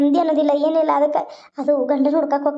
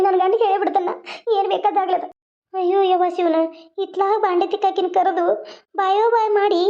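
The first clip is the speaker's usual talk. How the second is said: higher-pitched defiant wife hurling back at her mother-in-law; defiant daughter-in-law; 5 semitones higher than usual. Acted. Daughter-in-law snapping at mother-in-law, higher and defiant. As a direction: pitch it up and throw the threats back.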